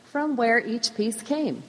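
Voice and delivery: slow, gentle hint of a Swedish grandmother's accent; light Swedish accent. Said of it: "in her wonderful Swedish accent".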